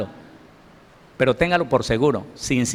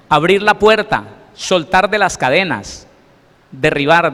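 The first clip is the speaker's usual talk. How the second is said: rising preaching cry; 2 semitones higher, 5 dB louder than usual. Acted. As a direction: call it out to the congregation. Preacher building on liberation words.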